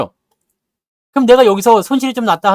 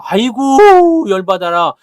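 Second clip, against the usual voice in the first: mock frustration; 2 semitones higher, 7 dB louder, much slower than usual. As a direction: act out being worked up over having no money to buy. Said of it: "돈이 없다는 거에 화가 나면". (돈 없어 열받은 척 길게 내지르는 푸념)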